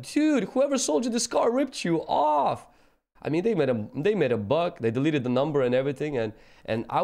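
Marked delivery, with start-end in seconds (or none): 0.0-2.7 high, slow, put-on mechanic voice; slow, raised, disbelieving mechanic; mechanic's verdict. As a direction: stretch it out like a stunned mechanic. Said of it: "they're like".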